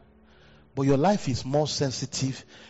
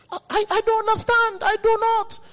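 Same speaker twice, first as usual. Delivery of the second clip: high, loud incredulous cry; exasperated disbelief; 4 dB louder than usual. Real, not acted. Pastor baffled at the congregation's lateness, loud incredulous cry. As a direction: throw up your hands in disbelief.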